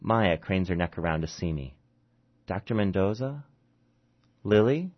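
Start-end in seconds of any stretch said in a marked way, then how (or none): 2.4-4.9 drugged patient calling. Acted. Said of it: "Her words slur under the drugs".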